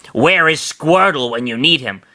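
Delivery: lightly put-on creature voice; mildly shocked question; shocked Pichu. A narrator's reading. Small creature wishing for help, mildly shocked voice. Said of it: "Pichu asked in shock".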